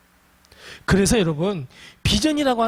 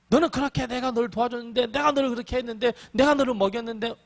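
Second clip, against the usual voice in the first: higher-pitched, mildly aggrieved rebuke; mock reproach; 4 semitones higher than usual. Preacher imagines God reminding Elijah of help given, mildly reproachful. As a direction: list your favours as an imagined reproach. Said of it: "책망하지 않으셨어요".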